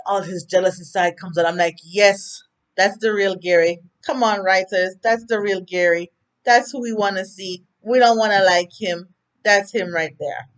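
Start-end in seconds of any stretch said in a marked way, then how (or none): 1.8-10.5 cheering. Real, not acted. Cheering at the TV writers.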